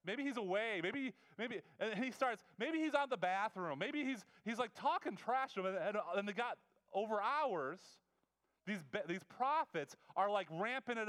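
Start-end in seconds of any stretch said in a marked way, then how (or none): 0.0-5.7 trash talking. Retold or imitated. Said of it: "Elijah's kinda like a trash talker".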